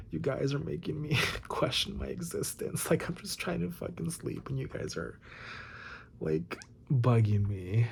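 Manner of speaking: high, soft exasperated whine; exasperated complaint. Retold or imitated. Telling the birds she is trying to sleep, exasperated complaint. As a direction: plead softly and high, fed up.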